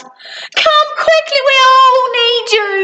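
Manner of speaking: high, pleading urgency; urgent call. Acted. Little Miss Sunshine fetches Mister Tickle, high urgent plea. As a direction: beg him to hurry. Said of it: "she cried".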